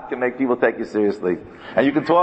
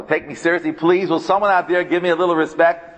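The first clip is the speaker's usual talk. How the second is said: pleading for respect; 4 semitones higher than usual. Retold or imitated. Voicing someone begging for respect.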